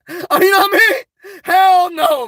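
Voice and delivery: high, slow laugh-through question; laughing at your own line; giggling question to the chat. Real, not acted. Laughing at his own joke.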